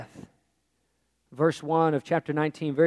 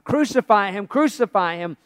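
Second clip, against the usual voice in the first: sudden raised crowd cry; 3 semitones higher, 5 dB louder than usual. Acted. Chief priests and officers see the prisoner, crying out. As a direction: break out louder from hushed reading, easing on the repeat. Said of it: "they cried out".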